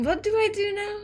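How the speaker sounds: ordinary delivery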